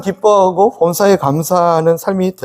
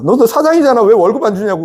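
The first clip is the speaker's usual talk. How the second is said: raised insistent reminder; 3 semitones higher than usual. Retold or imitated. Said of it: "그 이재용아".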